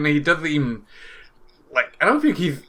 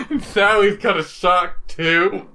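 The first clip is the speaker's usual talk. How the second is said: hiccups; 3 semitones higher than usual. Real, not acted. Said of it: "I got the hiccups".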